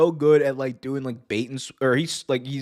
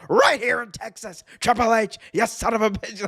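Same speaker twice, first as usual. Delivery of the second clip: higher, outraged announcer voice; Jim Ross impression; 8 semitones higher than usual. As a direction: JR cursing at the villain. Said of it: "And he's like".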